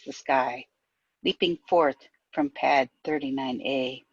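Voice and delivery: measured verse with falling line ends; poetry reading. Acted. Poet reading an Apollo launch poem aloud, measured recital. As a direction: recite evenly, pausing between lines. Reads poem part Dragon.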